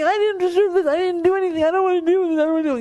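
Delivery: high, loud hammed-up tantrum yell; mock screaming. Teacher mimics a driver screaming after being cut off, high hammed-up yell. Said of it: "please don't start screaming".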